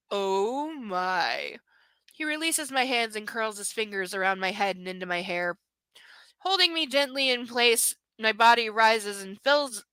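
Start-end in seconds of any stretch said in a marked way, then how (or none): 2.1-7.9 whispering. Acted. Whispered erotic reading.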